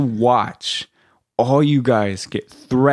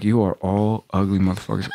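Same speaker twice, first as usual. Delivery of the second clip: lightly voiced low instructor, not yelling; a hint of a worn-out, low sergeant voice; hoarse drill instructor; 4 semitones lower than usual. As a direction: imitate an instructor who has yelled all day. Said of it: "he's not even yelling".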